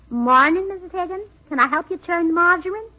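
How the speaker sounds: lightly put-on farm woman's voice; playing a farmer. City wife practising as a farmer greeting a neighbour, lightly folksy. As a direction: try out a hint of folksy farmer talk. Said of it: "Gracie Allen, the farmer".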